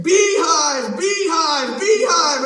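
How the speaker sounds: fast loud high calls; garbled shout; misheard cries. Retold or imitated. Mary running up, shouting news misheard. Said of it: "I can hear her correctly".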